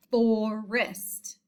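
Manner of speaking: "forest" broken into two syllables; split into syllables. Shown as a demonstration. Teacher showing the first syllable to pupils, "forest" split in two. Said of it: "That is the first syllable".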